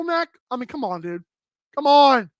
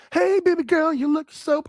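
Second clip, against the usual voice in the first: pop group singer; 2 semitones higher than usual. Acted. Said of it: "pop groups".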